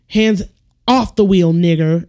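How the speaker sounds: lightly voiced gruff officer, punched out; a hint of a barking cop; acted cop command. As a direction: give a mock police order with force. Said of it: "just be like".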